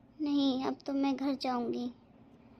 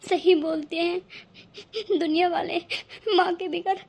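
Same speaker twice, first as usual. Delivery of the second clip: crying; 5 dB louder than usual. Acted. Pooja breaks down.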